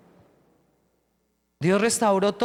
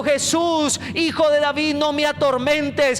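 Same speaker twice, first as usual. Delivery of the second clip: possessed man crying out; 5 semitones higher, slower than usual. Retold or imitated. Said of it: "Iba gritando".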